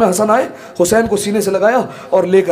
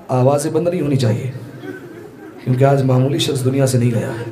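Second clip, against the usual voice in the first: mournful sermon; 5 semitones lower, 4 dB quieter than usual. Real, not acted. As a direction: grieve in a low voice, leaving long pauses. Preacher opens the lament softly.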